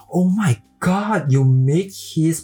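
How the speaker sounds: high, slowed, gushing mock amazement; feigned surprise. Passenger faking amazement at the driver meeting Beckham, high and gushing. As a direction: overplay being impressed. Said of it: "故作惊讶说".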